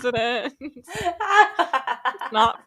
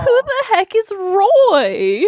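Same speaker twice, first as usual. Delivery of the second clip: higher, slow, laughing; laughing exasperation; 8 semitones higher, 6 dB louder, much slower than usual. Real, not acted. Player baffled by the clue, laughing exasperated. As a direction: stretch it out, cracking up.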